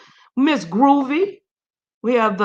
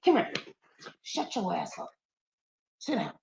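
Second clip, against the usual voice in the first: much softer, low, under the breath; softer, lower muttered scold at the dog; hushed scold to dog; 4 semitones lower, 14 dB quieter than usual. Real, not acted. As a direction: quietly shush the dog aside.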